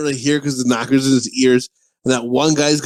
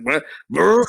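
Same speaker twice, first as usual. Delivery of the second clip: imitated farting. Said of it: "pissing and farting as he's pissing".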